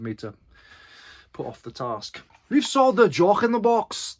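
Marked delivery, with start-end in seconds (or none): 2.5-4.2 slow, high mock Scottish accent; bad Scottish accent. Seller announcing a sale in a hammed-up Scottish accent. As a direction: ham up a Scottish accent on purpose. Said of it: "Terrible accent".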